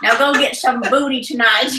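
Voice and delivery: lightly voiced pirate send-off; playful hint of pirate. Wife signing off to viewers, playful pirate. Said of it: "talking like a pirate".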